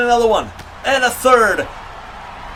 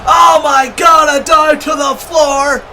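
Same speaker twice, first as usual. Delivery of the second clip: excited shout; 5 dB louder, slower than usual. Real, not acted. Big dive to the floor.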